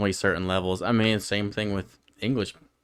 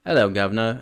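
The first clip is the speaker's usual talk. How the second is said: a bit louder, hammed-up British greeting; mock British accent; 2 semitones higher, 5 dB louder, faster than usual. Shown as a demonstration. Podcaster showing off an amateur British impression, mock British accent. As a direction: put on a stock British accent. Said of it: "I'm doing a British".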